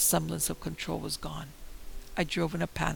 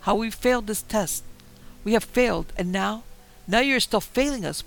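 much louder, higher furious scream; 6 semitones higher, 7 dB louder than usual. A narrator's reading. Martin screaming at Alice and the woods, furious. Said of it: "I screamed at the woods".

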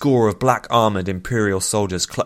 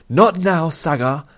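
sharp, higher and louder brush-off; snapped; 9 semitones higher, 6 dB louder, slower than usual. A narrator's reading. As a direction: cut him off curtly. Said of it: "Nuthia snapped".

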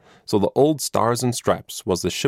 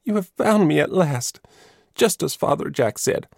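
put-on tearful boy; 3 semitones higher than usual. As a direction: plead to be accepted, voice lifted. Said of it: "tears streaming down his cheeks".

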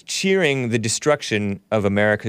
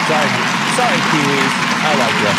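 bad Kiwi accent; 4 dB louder, faster than usual. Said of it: "butchering that Kiwi accent".

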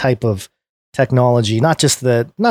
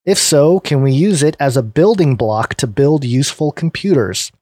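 clear, lifted read-aloud voice; presenter reading from a written piece; article read aloud; 3 semitones higher than usual. Real, not acted.

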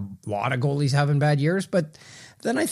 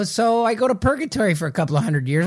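Paulie quote; 6 semitones higher than usual. Retold or imitated. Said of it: "he says, like".

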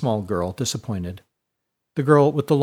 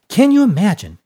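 much higher and louder, thrilled; gossipy excitement; 9 semitones higher, 8 dB louder than usual. A narrator's reading. Poppy gossiping eagerly to Fiona, high and thrilled. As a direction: relish the gossip. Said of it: "with a gleam in her eye".

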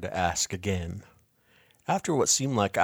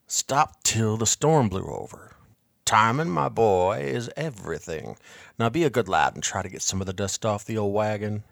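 put-on lecturing old salesman. Bartleby lecturing the boy.

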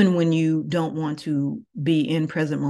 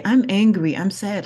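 put-on a touch of a child's voice, louder and higher on angry; 4 semitones higher, 4 dB louder than usual. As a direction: lightly play a kid stating a feeling. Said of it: "When children say".

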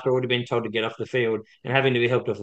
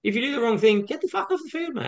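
heated; 11 semitones higher than usual. Real, not acted. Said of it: "He's getting heated".

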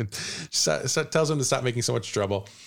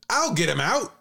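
witch voice; 7 semitones higher than usual. Acted. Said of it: "The witch... says".

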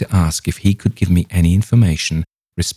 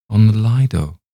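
raised but more contained repeat; firm insistence; 4 semitones higher, 5 dB louder than usual. A narrator's reading. Young man repeating his answer to the rabbi, firm. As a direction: repeat it firmly, a step down.

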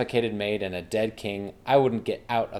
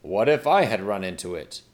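whining king; 2 semitones lower, 4 dB louder than usual. Acted. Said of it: "The king whined".

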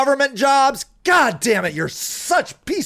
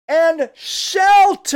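angry; 4 semitones higher, much slower than usual. Real, not acted. Ranting podcaster yells at his listeners, angry shout. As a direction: bark the last word out in real frustration. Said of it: "God, I'm angry".

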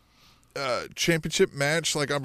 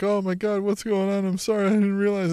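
a touch of faked concern, pitched up; mock innocent apology; 5 semitones higher than usual. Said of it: "played the whole".

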